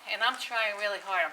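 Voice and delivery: breathless from holding her still; puffing between words from effort; out of breath. Real, not acted. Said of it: "I'm out of breath".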